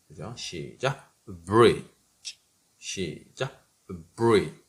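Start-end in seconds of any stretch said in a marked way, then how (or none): 4.2-4.6 greasy. Shown as a demonstration. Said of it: "느끼하게".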